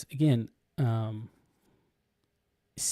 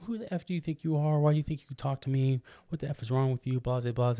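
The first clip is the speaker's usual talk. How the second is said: mock-angry tirade at a coworker; imitating her telling him off; going off on him. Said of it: "she starts going off".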